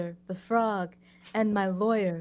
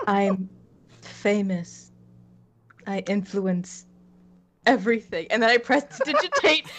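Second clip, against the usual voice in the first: flat monotone influencer voice; deadpan monotone, no emotion; 3 dB louder than usual. Acted. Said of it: "the most monotone voice imaginable".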